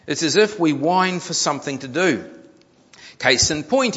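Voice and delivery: emphatic reading to an audience; article read-aloud. A narrator's reading. Preacher reads a news article to the congregation, emphatic read-aloud. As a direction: read it out with punch.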